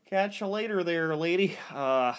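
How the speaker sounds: halting mock-British accent; put-on British. Steering the lady to his friend T J in mock British. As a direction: keep up the dubious British character. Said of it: "Now you're British?".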